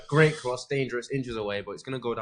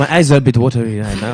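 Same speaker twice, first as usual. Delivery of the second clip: laughing; 9 dB louder than usual. Real, not acted. Laughing while eating hot sauce.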